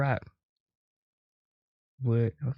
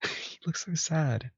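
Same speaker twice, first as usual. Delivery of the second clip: laughing; 6 semitones higher, 4 dB quieter, slower than usual. Real, not acted. Laughing at sad bull.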